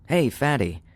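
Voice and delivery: mild narrated yell. A narrator's reading. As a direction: call it out high without really yelling. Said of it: "I yelled".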